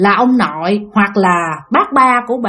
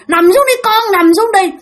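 pressing, stressed voice; 11 semitones higher, 4 dB louder than usual. Retold or imitated. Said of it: "dằn, dằn cái giọng bà vậy đó".

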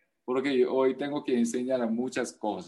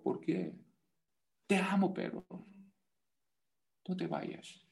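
put-on child pleading; 4 semitones higher than usual. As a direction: plead like a hurt little kid.

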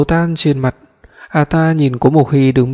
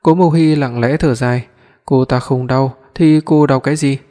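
ordinary delivery, nothing marked

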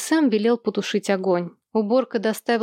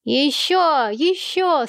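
egging on; 6 semitones higher, much slower than usual. A narrator's reading. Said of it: "стал подначивать двойняшек Сэм".

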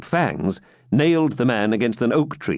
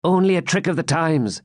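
higher, light-toned jester; 7 semitones higher than usual. A narrator's reading. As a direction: play it as the wry jester. Jester voiced in story.

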